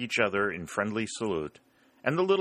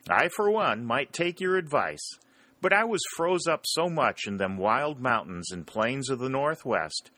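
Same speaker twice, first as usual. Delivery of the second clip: higher, lightly voiced frontiersman; dry joking; 5 semitones higher than usual. Whitley joking back to the Rebel, lightly voiced. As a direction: answer dryly with a grin.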